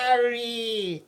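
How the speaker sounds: hammed-up Jamaican accent. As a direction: stretch it out in comic Jamaican accent. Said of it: "in a Jamaican accent".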